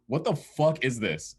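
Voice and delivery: slow, drawn-out aggressive demand, imitated; super aggressive. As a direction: imitate an affronted challenge, stretching the words. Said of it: "super aggressive".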